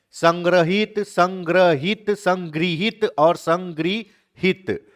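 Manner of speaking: slow, soft reading of संग्रहित and संगृहित; reading options slowly. Shown as a demonstration. Teacher reading spelling choices slowly to students. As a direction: lay out each spelling slowly and quietly. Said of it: "कौन सा शब्द सही है".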